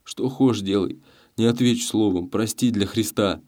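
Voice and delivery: plain reading voice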